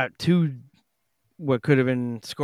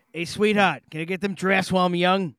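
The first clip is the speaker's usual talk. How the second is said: higher, fast rough Boston barfly; 5 semitones higher than usual. Pretend. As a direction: order beers like a pushy bar regular. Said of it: "I did throw out the White Trash Rob".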